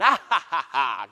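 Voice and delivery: loud demo laugh. Shown as a demonstration. Preacher showing how to laugh while giving, loud laugh. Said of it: "laughing while we're giving".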